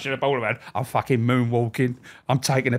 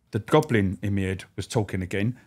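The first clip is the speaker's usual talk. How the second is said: normal talking voice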